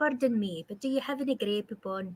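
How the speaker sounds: polite tone in a put-on Scottish brogue. Asking for a scottish version, the speaker redoes the grey poupon line in a scottish accent. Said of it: "but do it in Scottish".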